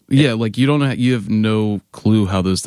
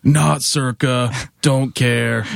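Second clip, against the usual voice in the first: drawn-out heckle, pitch slightly raised; mock heckler yell; 4 semitones higher, much slower than usual. Band member imitating the guy yelling at them to get off stage, mock yell. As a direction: imitate a yelling heckler without full volume. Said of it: "that guy was just yelling at us".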